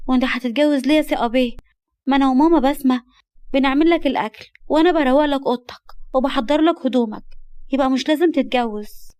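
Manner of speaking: put-on angry girl. Girl protesting her guardian's marriage plan, angry. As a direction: object with mild girlish anger. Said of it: "نجمة بغضب".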